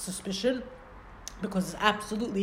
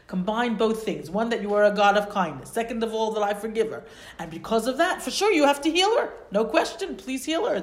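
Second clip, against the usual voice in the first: urgent plea; 2 semitones higher than usual. Acted. Moshe begging God to heal his sister, urgent plea. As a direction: beg God to heal her, rising.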